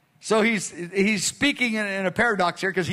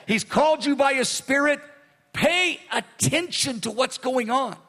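fervent appeal. Acted. Preacher voicing Jesus' appeal.

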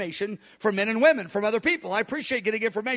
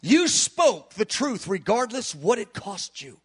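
slow, sincere words to Jesus; sincere prayer; slower than usual. Shown as a demonstration. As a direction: tell him gently what he did. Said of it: "I'll say to him".

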